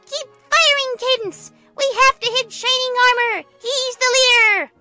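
high, loud commander's cry; rally the troops, stretching the last words; shouted battle orders. Acted.

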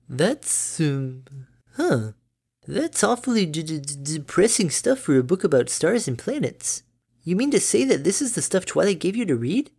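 high, bright-natured mother pony; doting mom, high and chirpy; cheery mother voice. Acted. Derpy stammering.

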